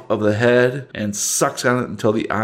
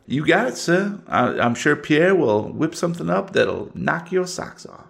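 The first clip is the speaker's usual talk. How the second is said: put-on Southern Cajun accent. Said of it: "Southern one minute and Cajun the next".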